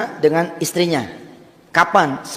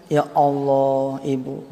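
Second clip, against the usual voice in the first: retold sobbing; 4 semitones lower, 4 dB quieter, much slower than usual. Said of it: "nangis sesenggukan dia".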